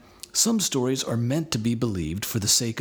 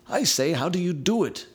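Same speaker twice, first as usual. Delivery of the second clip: put-on high, eager boy's question; lightly voiced boy asking; John asking; 8 semitones higher than usual. A narrator's reading. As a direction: ask it like a frustrated child. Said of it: "asked John, rubbing his knee".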